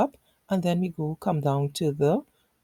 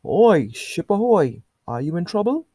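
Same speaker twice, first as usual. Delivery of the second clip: sailors yelling back; 5 dB louder than usual. Acted. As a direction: yell back across the water.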